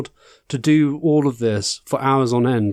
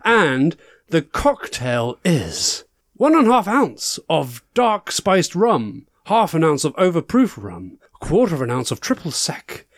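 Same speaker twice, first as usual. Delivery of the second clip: campy drag queen. Acted. Host character continues the game.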